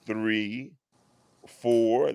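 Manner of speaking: low, gentle counting; calm counting. Retold or imitated. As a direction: keep the count soothing. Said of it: "that calming voice".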